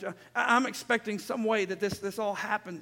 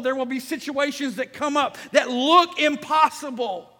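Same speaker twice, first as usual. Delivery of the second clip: loud, raised, driving sermon voice; full-force preaching; 6 semitones higher, 9 dB louder than usual. Real, not acted. Preacher urges congregation not to lose heart, full-force preaching. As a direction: proclaim scripture forcefully to the room.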